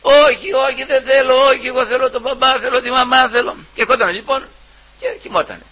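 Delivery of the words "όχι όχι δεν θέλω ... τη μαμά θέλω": put-on child's protest. Child refusing, crying for parents.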